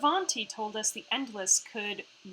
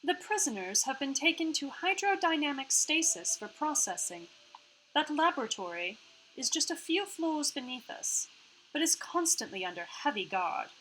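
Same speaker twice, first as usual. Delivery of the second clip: put-on half-Australian AI accent; 5 semitones higher than usual. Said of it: "sorry about her accent right now".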